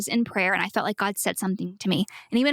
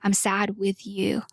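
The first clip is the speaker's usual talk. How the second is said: gentle comforting. Retold or imitated. God's voice comforting her.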